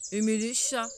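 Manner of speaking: cri indigné, beaucoup plus fort; la souris hurle, outrée; cri perçant de colère. Acted. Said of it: "cria la souris d'une voix perçante en colère". (la souris crie sa colère contre les chats, d'une voix perçante)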